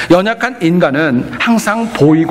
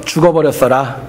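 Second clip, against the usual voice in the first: Jeolla dialect; 3 semitones lower than usual. Retold or imitated. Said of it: "전라도 분들은요".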